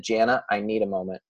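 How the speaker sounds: calm, retold boundary. Repeating the reply that softened the friend, very calm. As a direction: ask for space calmly, without heat. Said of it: "I said very calmly".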